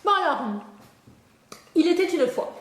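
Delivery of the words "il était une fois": a teacher starting a dictation. Shown as a demonstration. Spelling lesson, dictating the next phrase. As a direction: announce il était une fois like a dictation. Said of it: "comment t'écris il était une fois".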